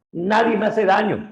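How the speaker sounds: high, loud wail for help; panicked cry. Acted. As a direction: cry out to his brothers in panic. Blinded cyclops calls brothers. (el cíclope herido pide ayuda a sus hermanos, gritando agudo)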